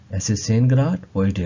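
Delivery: very slow, each word of zehn Grad heute spaced out; slow model phrase. Shown as a demonstration. Teacher modeling German for students, very slow. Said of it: "teacher repeats German phrase slowly".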